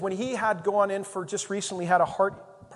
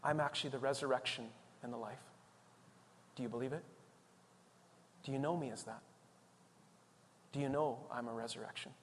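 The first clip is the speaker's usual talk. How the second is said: low, very soft divine voice; hushed appeal; 6 semitones lower, 12 dB quieter, faster than usual. Acted. God quietly asking listeners to believe, hushed appeal. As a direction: ask gently, almost under the breath.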